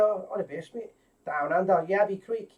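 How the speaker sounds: hammed-up, badly faked Aussie accent; bad Australian accent. Host greeting a viewer down under in Sydney, bad Australian accent. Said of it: "That was the worst Australian accent ever".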